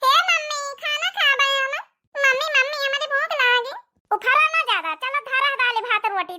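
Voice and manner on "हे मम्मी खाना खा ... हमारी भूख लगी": put-on child voice. Child calling mother for food.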